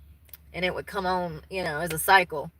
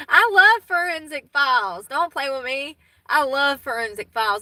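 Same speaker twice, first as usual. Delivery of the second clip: excited; 5 semitones higher, 6 dB louder than usual. Real, not acted. Gushing about favourite show.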